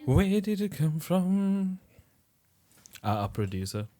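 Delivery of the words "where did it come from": high, drawn-out mock complaint; mock-insistent. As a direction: stretch every word of the question, pitched high. Repeats unanswered question in exaggerated way.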